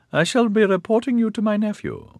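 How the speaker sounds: put-on stern old matriarch. A narrator's reading. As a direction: berate him in a wavering old voice. Old woman's voice continues.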